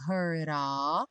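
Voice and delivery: "heard of" as one word, D tapped; linked D flap. Shown as a demonstration. Teacher explaining the link, "heard of" with tapped D. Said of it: "o D do heard virou rarará".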